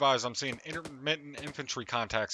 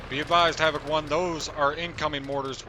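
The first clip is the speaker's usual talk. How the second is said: urgent shout; 3 semitones higher, 5 dB louder than usual. Real, not acted. Warning of incoming mortars.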